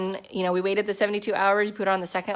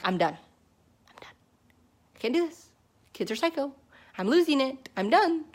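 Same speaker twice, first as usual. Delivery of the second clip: breaking down; 6 semitones higher than usual. Retold or imitated. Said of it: "And I broke".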